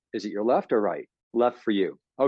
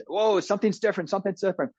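high, startled whoa; alarmed inner voice; 7 semitones higher, faster than usual. Retold or imitated. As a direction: sound the brain's alarm. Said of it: "alerts that say".

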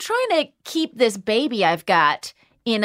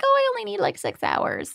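smug brag; 10 semitones higher, 4 dB quieter than usual. Retold or imitated. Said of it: "people who ... are like".

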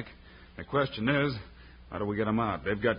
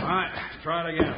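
heave ho pulling; 5 semitones higher than usual. Acted. Swinging beef as battering ram.

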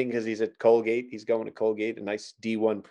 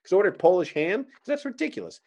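mock indignation; 6 semitones higher than usual. Joke customer takes offence.

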